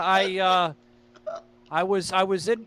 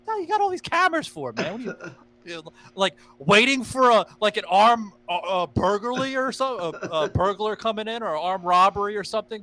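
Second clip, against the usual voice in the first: mock incredulous; 4 semitones higher than usual. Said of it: "I'm like".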